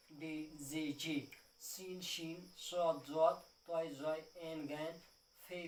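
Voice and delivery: letter names said one by one, slow and clear; reciting the letters. Shown as a demonstration. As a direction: recite the alphabet for pupils to repeat. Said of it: "جو pronunciation ہے جس کو ہم آواز". (حروف تہجی کی صاف ادائیگی)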